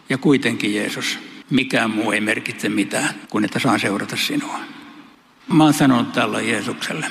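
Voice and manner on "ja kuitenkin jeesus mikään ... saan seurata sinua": quiet devotion. Retold or imitated. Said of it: "Pietarin vastaus oli tällainen".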